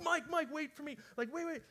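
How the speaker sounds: chasing after Mike, shouting his name; calling after someone. Retold or imitated. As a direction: call out after him as he walks off.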